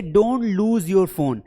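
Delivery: very slow, clear example sentence. Shown as a demonstration. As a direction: read it word by word for the class. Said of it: "इसे हम कहेंगे". (धीमा, साफ़ उदाहरण वाक्य)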